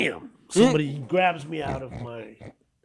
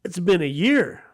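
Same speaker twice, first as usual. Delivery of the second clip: much higher and louder, caught off guard; high startled excuse, slowed on year; startled kid; 6 semitones higher, 7 dB louder, slower than usual. Retold or imitated. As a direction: protest that it was long ago. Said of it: "I'm like".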